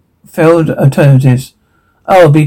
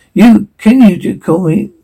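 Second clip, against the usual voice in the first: frantic yell; 4 semitones higher than usual. Acted. Panicked outburst during the birth.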